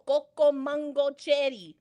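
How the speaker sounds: slow, spelled-out "Coco mango cherry"; word by word. Shown as a demonstration. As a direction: give "Coco mango cherry" slowly, each word distinct. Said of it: "One word".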